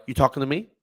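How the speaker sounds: lightly imitated movie line, rising at the end; Robert De Niro. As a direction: ask it as a light film quote. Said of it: "like, Robert De Niro".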